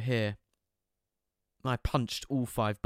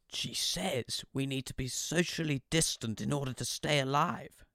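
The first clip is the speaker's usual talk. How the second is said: teasing dad; 4 semitones higher than usual. Retold or imitated. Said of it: "Dad said, winking".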